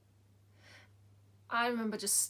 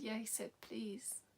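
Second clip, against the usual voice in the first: whisper; 7 dB quieter than usual. Retold or imitated. Mother gently answering her grieving son.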